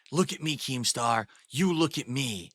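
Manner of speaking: lightly mimicked tough-guy demand; lightly mock a self-important heavy; mocking imitation. Streamer mocking his rival's played clip, mild tough-guy imitation. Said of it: "And it's funny".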